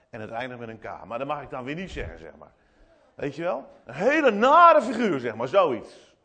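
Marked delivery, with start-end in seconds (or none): 3.8-5.2 raised, higher-pitched blurt of annoyance; loud indignant name-calling, acted; scolding a friend. Hurt friend hits back with an insult, mock indignant.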